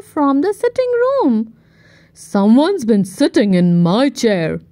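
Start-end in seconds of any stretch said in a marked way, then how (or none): 2.1-4.6 growled. Acted. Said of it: "growled Daddy Bear".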